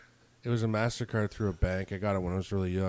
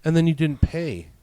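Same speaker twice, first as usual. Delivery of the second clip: mimicking the supervisor; 6 semitones higher, 6 dB louder than usual. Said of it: "she goes".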